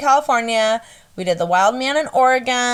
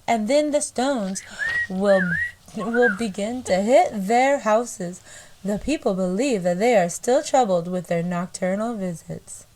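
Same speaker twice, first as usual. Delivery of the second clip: put-on country accent. Reading a reverend's letter about giants, unhurried country accent. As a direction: recite the old letter with a country twang. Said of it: "I can only do country".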